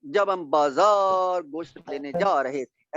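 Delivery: slow, drawn-out stresses on बाजार and जा; exaggerated stressed rhythm. Shown as a demonstration. Teacher showing how Urdu is not spoken, exaggerated stress on बाजार and जा. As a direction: stretch बाजार and जा as if stress-timed. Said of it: "हम ऐसे तो नहीं कहते उर्दू में".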